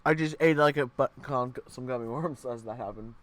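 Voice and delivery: talking while chewing gummies; words round a mouthful; mouth full. Real, not acted. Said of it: "I was chewing gummies".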